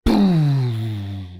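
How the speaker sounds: low, long drawn-out boom; imitated boom. Like a GTA cutscene after a headshot, low booming effect. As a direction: let the boom ring out and sink.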